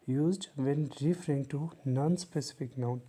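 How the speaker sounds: very slow, word by word, like dictating a definition; slow dictation. Shown as a demonstration. Teacher reading the definition slowly to students. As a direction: spell it out slowly for the class.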